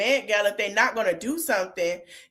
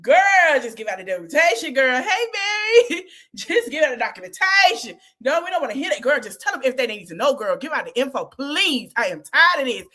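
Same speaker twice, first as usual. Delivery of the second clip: put-on exasperated girl; 4 semitones higher, faster than usual. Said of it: "you can hear it in her voice".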